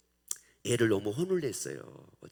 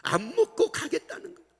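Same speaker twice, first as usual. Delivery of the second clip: exasperated; 7 dB louder than usual. Acted. Exasperated about child.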